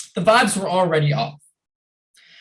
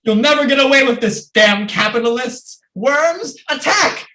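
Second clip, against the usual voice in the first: fast, loud villain rant rising to a yell; villainous battle cry; 4 semitones higher, 3 dB louder than usual. Acted. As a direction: shout the attack order like a cartoon villain. Villain calls worms to attack.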